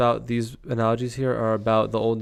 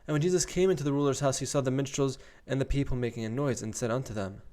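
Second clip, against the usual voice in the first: measured Bible read-aloud; scripture reading; 3 semitones higher, 3 dB quieter than usual. Acted. Reader telling of miracles to listeners, scripture reading. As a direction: read out the verses with deliberate phrasing.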